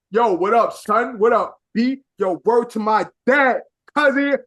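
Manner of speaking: lightly hammed-up New York slang; mock New York accent. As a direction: put on a slight New York accent in mockery. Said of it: "turning on the New York accent".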